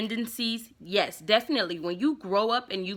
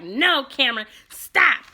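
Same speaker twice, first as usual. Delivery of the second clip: urgent plea; 3 semitones higher, 5 dB louder than usual. Retold or imitated. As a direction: cut him off before he goes too far. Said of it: "And Trina was like".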